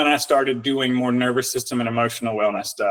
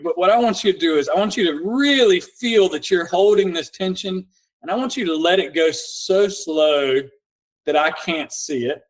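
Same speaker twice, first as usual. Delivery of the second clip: calm coaching voice; 3 semitones higher than usual. Shown as a demonstration. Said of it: "coaching a tension-release exercise".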